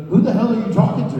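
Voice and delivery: high, loud incredulous yell, laughing; mock baffled Cena. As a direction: bark the question in disbelief. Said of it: "and he goes".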